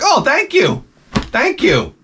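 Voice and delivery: high, indignant mock gratitude; sarcastic thanks. To the coworker who blew the movie ending, sarcastic thanks. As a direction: pitch up the first thanks, then drop.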